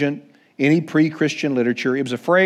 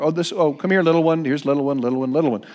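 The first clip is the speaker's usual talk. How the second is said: affectionate little one; faster than usual. Retold or imitated. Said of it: "this is what he says over and over".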